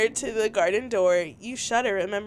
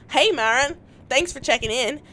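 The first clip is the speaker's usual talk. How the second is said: attempted Applejack accent; 2 semitones higher, 4 dB louder than usual. Answering Mara's check-in text in an attempted Applejack accent. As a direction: try an Applejack-style Southern accent. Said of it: "Okay, think Applejack".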